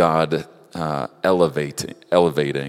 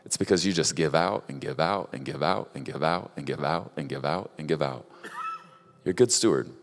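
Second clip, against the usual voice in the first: softer, tender chiding with a little laugh; gentle fatherly voice; 5 dB quieter than usual. Retold or imitated. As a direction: ease off and speak it softly, like a kind father. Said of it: "And Lord just goes".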